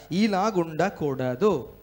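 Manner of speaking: drawn out, each syllable weighed; ఇలాగుండకూడదు spoken very slowly as a solemn warning; slow emphatic warning. Shown as a demonstration. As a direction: stretch ఇలాగుండకూడదు slowly and firmly. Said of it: "నా సహోదరులారా".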